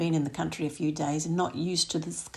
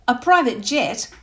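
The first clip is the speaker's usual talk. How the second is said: slow, high and louder; indignant disbelief; 6 semitones higher, 9 dB louder than usual. Acted. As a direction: repeat it as an outraged question. Narrator's hackles raised.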